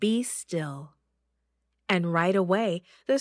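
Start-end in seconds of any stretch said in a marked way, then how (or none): 0.1-0.9 calm whisper. Acted. Jesus calming the storm.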